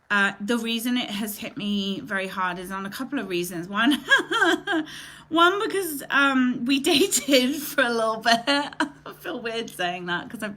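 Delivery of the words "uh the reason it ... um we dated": half-laughing, half-crying, voice wobbling on the edge; a tearful laugh while trying to explain why it hurts; laughing through tears. Real, not acted. Host admits to viewers why this loss hits hard, laughing through tears. Tearful confession about a lost friend.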